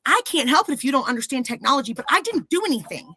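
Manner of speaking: retold furious argument; furious retort. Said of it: "I was furious at this point".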